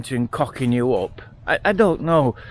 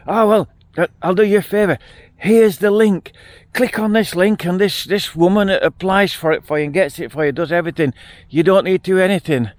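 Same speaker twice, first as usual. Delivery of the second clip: higher, pushier imitation of the scammer; a hint of a slick con man, raised pitch; mock eager scammer; 5 semitones higher than usual. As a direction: play the hacker lightly, keen to sell the link. Retold scam messages from fake Andrew.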